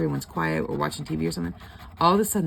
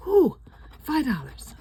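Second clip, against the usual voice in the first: a much higher, louder mock cheer over a tiny win; excited whoop; 10 semitones higher, 7 dB louder, slower than usual. Laughing at her own excitement over a five-dollar scratch win, mock whoop. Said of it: "was excited".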